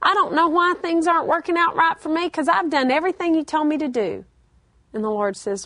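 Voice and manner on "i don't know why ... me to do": self-righteous complaint. Retold or imitated. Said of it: "And we say".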